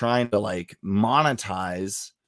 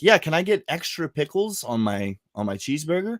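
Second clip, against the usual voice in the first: lightly higher-voiced customer order; higher, questioning quote; imitating girlfriend's order; 5 semitones higher than usual. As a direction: mimic a casual drive-up request, pitched up. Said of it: "she'd be like".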